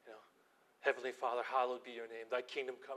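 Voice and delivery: soft, low morning prayer. Retold or imitated. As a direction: pray it gently and reverently. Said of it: "I just pray this beautiful prayer".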